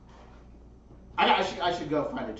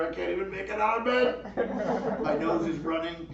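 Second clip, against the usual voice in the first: smug rich phone call. Retold or imitated. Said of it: "calling into work the next day rich".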